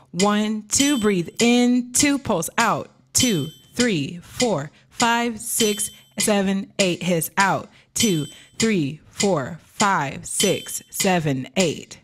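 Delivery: measured counting on a steady beat; exercise count-in. Shown as a demonstration. Coach leading students through a breathing drill, rhythmic counting. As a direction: count them through it, one number per beat.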